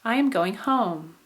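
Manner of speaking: "home" stressed as the last word, then falling; measured example, rise-fall on "home"; slowly, landing the main stress on "home"; high tone on HOME. Shown as a demonstration. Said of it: "put the high tone".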